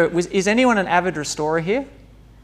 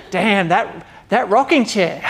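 admiring; 4 semitones higher, 7 dB louder, slower than usual. Retold or imitated. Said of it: "and they're just like".

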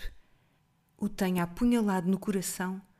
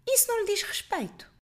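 jovem altiva; 13 semitones higher than usual. A narrator's reading. Haughty girl answers old woman.

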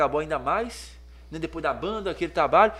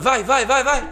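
higher, louder cheer; mock cheering; 6 semitones higher, 8 dB louder, slower than usual. Friend Juliano urging him on, loud cheer. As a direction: egg him on loudly.

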